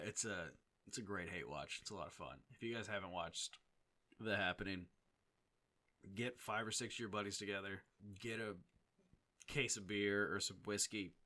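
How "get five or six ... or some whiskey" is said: talking through burps; words pushed out on burps; burping the words. Real, not acted. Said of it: "I'm just, like, talking through burps right now".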